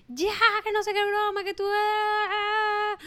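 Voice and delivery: high, loud mock scolding; retold yell at son. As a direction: re-enact yelling at the kid. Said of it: "Le grito a Ale". (grito de regaño a su hijo, agudo y fuerte)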